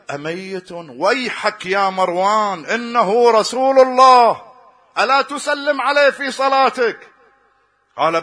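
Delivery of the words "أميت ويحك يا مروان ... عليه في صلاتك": slow, high, loud rebuke building to a shout; preacher voicing Abu Ayyub's outraged reply; indignant rebuke. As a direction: thunder it back at Marwan, deliberately slow.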